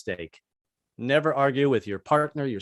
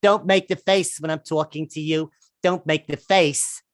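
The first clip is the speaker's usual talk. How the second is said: wife scolding. Retold or imitated. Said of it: "gets right in my face and says".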